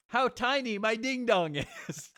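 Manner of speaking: high, slow squeaky voice with laughter. Retold or imitated. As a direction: squeak it out slowly. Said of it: "He's just like".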